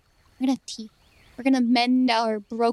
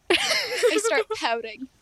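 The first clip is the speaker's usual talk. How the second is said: pouting voice; 7 semitones higher, much slower than usual. Acted. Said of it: "I immediately start pouting".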